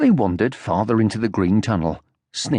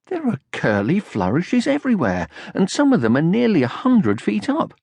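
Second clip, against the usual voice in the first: put-on higher, amazed young troll; Moomin Troll voice; 8 semitones higher than usual. A narrator's reading. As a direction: marvel at it, voice raised.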